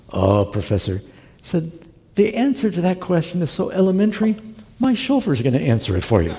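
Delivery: cool, superior punchline; a hint of a smug chauffeur; smug retort. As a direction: deliver the put-down with a grin.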